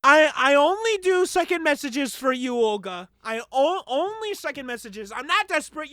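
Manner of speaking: mocking the caller.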